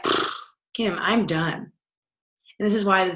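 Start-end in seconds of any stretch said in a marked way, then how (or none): 0.0-1.7 softer, deflated giving up with a scoff; a worn-out sigh of surrender; mock defeated. Client giving up in week four.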